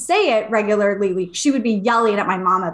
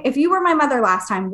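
fed-up mom; 3 semitones higher than usual. Retold or imitated. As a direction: push back like a mother at the end of her patience, voice raised in pitch. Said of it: "my mom had had enough of this".

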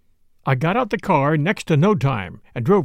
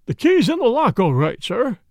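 deferential butler; 6 semitones higher, 3 dB louder than usual. A narrator's reading. Butler reports on the keyhole.

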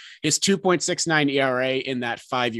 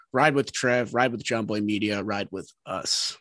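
polished podcast sponsor read; sports betting ad read. Acted. Host reading a sportsbook ad to listeners, announcer-style sales read. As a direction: pitch the sponsor to baseball fans.

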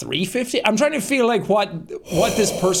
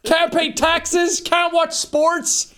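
mock stereotype voice; 10 semitones higher, much slower than usual. Mocking a stereotype.

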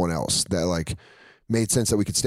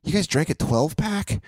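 much higher, shocked mock voice; mock disbelief; 8 semitones higher than usual. Bobby finding the beers gone, much higher mock disbelief. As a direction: act stunned at the empty cans. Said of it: "he's like".

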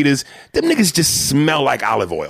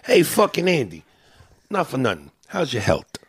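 put-on Italian-American accent. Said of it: "They don't pronounce the H".

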